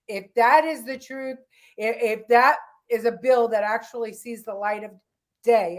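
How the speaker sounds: talking with the hiccups; hiccuping between words. Real, not acted. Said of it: "I have the hiccups".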